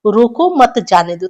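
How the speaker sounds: teacher demonstrating the comma after "मत"; comma pause demo. Shown as a demonstration. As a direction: read "रोको मत", brief break, then a falling "जाने दो". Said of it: "एक यहाँ विराम चिन्ह लगा दिया गया है".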